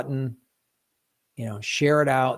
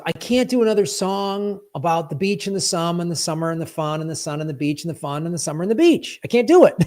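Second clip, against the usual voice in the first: exasperated artist; 4 semitones higher, 4 dB louder than usual. Retold or imitated. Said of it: "Paul Dano goes".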